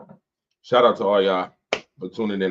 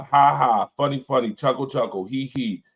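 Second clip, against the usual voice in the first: sarcastic fake laugh; 4 semitones higher than usual. Real, not acted.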